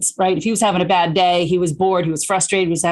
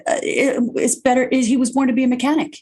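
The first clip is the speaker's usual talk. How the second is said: mock chirpy reply; 6 semitones higher than usual. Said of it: "It's like".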